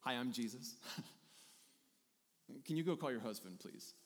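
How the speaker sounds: casual friendly greeting. Acted. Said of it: "So very casually".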